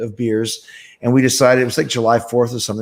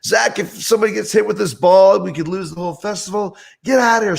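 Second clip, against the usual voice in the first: acted-out irate woman, voice pitched way up; Sharon Osbourne, pissed; 8 semitones higher than usual. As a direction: tell them off like a furious manager. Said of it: "She goes".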